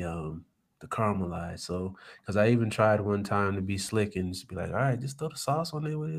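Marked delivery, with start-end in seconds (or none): 4.7-6.2 imitating his wife. Husband mimics wife's instruction.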